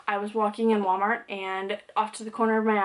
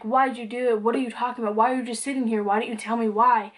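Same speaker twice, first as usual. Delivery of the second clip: mild mock yell, raised voice; retold yelling; 2 semitones higher, faster than usual. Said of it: "I was yelling at him".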